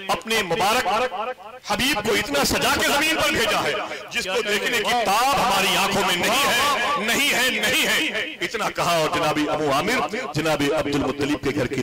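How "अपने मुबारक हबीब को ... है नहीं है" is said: high, overwhelmed cry to the Creator; crying out in awe. Retold or imitated. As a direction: cry out, almost breaking. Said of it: "मैंने चीख मारी". (ऊँची, भावुक पुकार)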